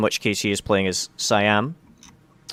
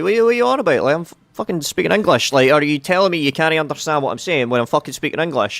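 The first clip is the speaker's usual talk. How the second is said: raised, heated voice, fed up and swearing; exasperated rant; 6 semitones higher, 3 dB louder than usual. Retold or imitated. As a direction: vent loudly at people who can't understand you. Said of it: "sometimes I'm just sitting there going".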